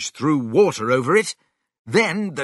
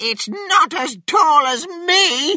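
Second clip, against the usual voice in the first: very high-pitched, loud shout. A narrator reads a grandmother beside an enormous chicken, shouting. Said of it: "shouted Grandma".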